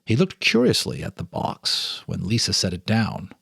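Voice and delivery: calm, measured storyteller reading; story narration. A narrator's reading. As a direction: read it like a ghost story by lamplight. Reads ghost story aloud.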